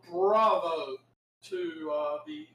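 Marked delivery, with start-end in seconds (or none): 0.1-1.0 slow, loud cheer of bravo; hearty bravo. Real, not acted. Cheering the writers with a loud, slow bravo. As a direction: call out bravo to the writers like a fan.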